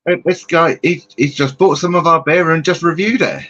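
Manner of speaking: imitated excited announcement. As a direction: re-enact someone's delighted news. Re-enacts host's remark on the live.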